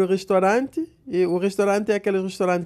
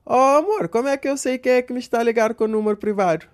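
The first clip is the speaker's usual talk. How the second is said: a light mock of his wife, slightly raised; imitating his wife; 4 semitones higher than usual. Husband imitating his wife's phone question, lightly raised. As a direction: lightly voice the wife asking sweetly. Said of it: "Ela virou para mim e disse".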